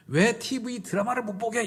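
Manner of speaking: high-pitched indignant question; angry protest. Shown as a demonstration. Wife objecting to the TV ban, angry high protest. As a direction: demonstrate a cross complaint, voice up high. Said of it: "이렇게 화내면 안 되고".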